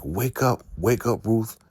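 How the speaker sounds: high-pitched mock rousing call; acted wake-up call. Highest's people to unconscious Ruth, high wake-up call.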